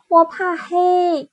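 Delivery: slow, high, timid cub voice; a frightened little cub admitting it; scared little bear. Acted. Little bear fears the dark.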